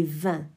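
vin with a distinct, buzzing v at the start; clear v in vin. Shown as a demonstration. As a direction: say vin carefully, the v clearly unlike a b. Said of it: "la discrimination entre le son b".

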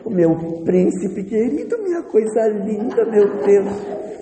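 put-on high, slow cooing over a baby; doting mother. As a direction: coo adoringly as a mother holding her little prince. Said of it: "Mas a mãe pega, põe no colo". (mãe babona, voz aguda e derretida)

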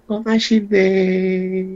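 slow Gyeongsang dialect 고맙신데 for thanks. Acted. The bride thanks her brother-in-law in Gyeongsang dialect. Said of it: "경상도 말 배워버렸네".

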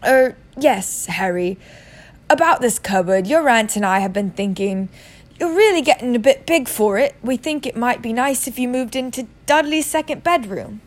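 halting, falsely friendly uncle; forced pleasantness. Acted. Uncle offers the boy a bedroom, forcedly nice. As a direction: say it through a strained smile. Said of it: "forced his face into a smile".

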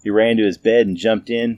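plain reading voice

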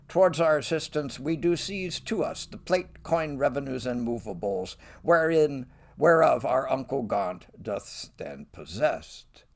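imperious king. Acted. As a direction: proclaim the seizure grandly. Richard seizing Gaunt's goods.

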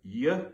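y said as a clear glide sound; y spoken as a sound, not a letter name; letter sound demo. Shown as a demonstration. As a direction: sound out y as in yod. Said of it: "so you've got".

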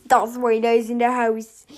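lightly voiced low Darth Vader; a hint of deep Vader menace. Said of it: "kann ich jetzt Darth Vader nachmachen".

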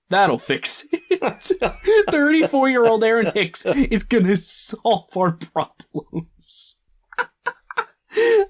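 laughing through the words. Real, not acted. Host laughs at the Angels' desperate signing, laughing. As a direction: giggle out the sarcasm. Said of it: "I can't get through that one without laughing".

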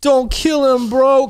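high-pitched wailing plea, imitated; hammed-up tearful begging; mock crying. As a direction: beg like a panicking, tearful coworker. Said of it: "He starts crying".

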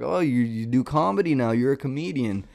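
mock Southern teasing, lilting up; smart-ass Southern accent. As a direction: goad them like smart-ass relatives with a rough Southern twang. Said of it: "it's a smart ass kind of thing".

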